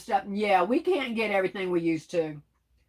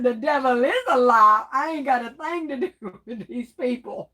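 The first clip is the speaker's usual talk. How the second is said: dramatic denial; 2 semitones higher, 3 dB louder than usual. Retold or imitated. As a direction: play it as mock church-lady outrage. Voicing KOK's dramatic denial.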